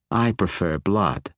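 slow, otherworldly purr; cool dragon woman. Acted. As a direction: let the menace sit in slow words. Dragon sister speaks.

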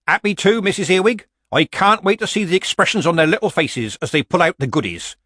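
high, loud, sugary-nice eagerness; strangely nice. A narrator's reading. Granny agreeing to run the bran tub, strangely nice. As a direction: pitch it up and be suspiciously nice. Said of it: "it had that strange edge to it again. It sounded nice".

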